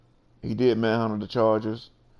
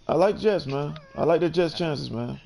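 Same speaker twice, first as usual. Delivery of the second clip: higher-pitched, emphatic declaration; saying it with chest; 5 semitones higher than usual. Pretend. Podcast host answering co-host's challenge to back the Jets, emphatically. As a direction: declare the pick with playful conviction, pitched up. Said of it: "Say it with your chest".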